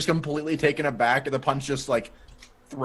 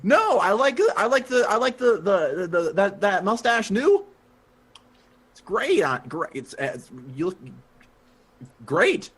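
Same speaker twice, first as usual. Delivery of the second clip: stammering, higher-pitched placating; nervous flattery; 5 semitones higher than usual. Acted. Edgar praising Weasel's mustache, nervous stammering. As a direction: grope haltingly for a compliment.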